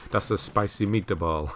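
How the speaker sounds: put-on slowed, half-hearted Italian accent; hammy fake Italian accent, barely there; bad Italian accent. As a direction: attempt a corny Italian accent, badly. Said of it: "you gotta say that in an Italian accent".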